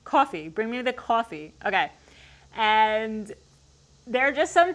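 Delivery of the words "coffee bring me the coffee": testing out a Long Island "coffee"; Long Island accent, showing off the word. Shown as a demonstration. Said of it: "Is that how I say it?".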